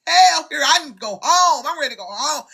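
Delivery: high, mock-panicked whine; mock scared whine. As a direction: fake crying to go home. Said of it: "I was like".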